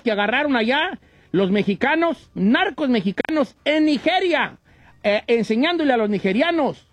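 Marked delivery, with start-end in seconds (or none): 2.3-4.6 higher and slow, each word leaned on; slow emphatic recap of the story. Acted. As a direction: hammer home the headline. Restating the headline for emphasis.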